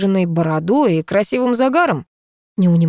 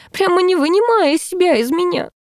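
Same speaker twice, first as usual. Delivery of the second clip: стон; 12 semitones higher than usual. A narrator's reading. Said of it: "простонала Люба".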